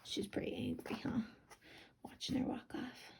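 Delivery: hushed aside to the listeners; whisper. Real, not acted. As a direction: whisper it like a secret. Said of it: "whispered aside".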